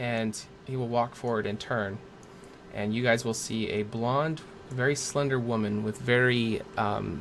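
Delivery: ordinary talk, nothing marked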